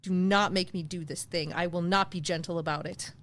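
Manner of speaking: low, measured mock threat; playfully menacing, pitch dropped; mock warning.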